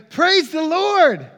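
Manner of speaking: high, loud, drawn-out praise; elated shout. Retold or imitated. Lady finding groceries on her porch, elated shout. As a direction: stretch it out in a jubilant cry. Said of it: "And she shouted".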